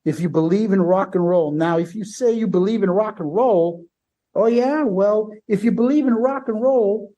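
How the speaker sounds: rally the crowd like the frontman; lightly voiced frontman rallying the crowd; imitating Paul. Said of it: "he sounds like fucking Foghorn Leghorn".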